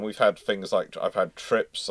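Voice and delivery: ordinary delivery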